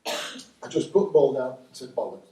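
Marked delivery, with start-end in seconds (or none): 2.0-2.3 quiet curse under the breath; muttered to himself. Retold or imitated. Retelling the curse muttered after the throw-in. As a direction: say it low, just for yourself. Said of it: "to myself".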